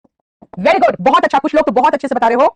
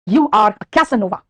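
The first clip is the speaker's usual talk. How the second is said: slow teasing example; 3 semitones lower, much slower than usual. Shown as a demonstration. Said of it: "मैं कहूंगी".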